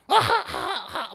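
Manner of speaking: high, slow drawn-out giggle; copying a colleague's happy laughter; imitated happy laugh. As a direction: mimic a colleague's joyful laugh. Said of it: "제 옆에 그 웃는 소리가 있어요".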